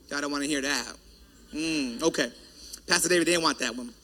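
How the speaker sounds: low, soft mock-resigned aside; under-the-breath comment on a quiet crowd; muttered aside. Real, not acted. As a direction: drop right down as if talking to yourself. Aside on congregation's cool response.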